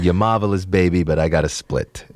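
lightly voiced crooner slang; cool, casual brush-off; a classic crooner. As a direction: toss it off like a lounge star. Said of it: "now I'm doing a crooner impression".

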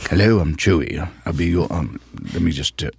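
hint of a polite English accent; tentative English-accented introduction. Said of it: "I had an English accent".

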